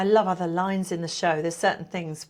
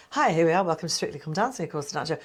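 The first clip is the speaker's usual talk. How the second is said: Tess impression; faster than usual.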